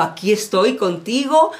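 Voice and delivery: low voice easing into softness; reassuring. Acted. God encouraging Elijah in the cave, reassuring. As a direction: start firm, fade to a near whisper. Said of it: "le dijo".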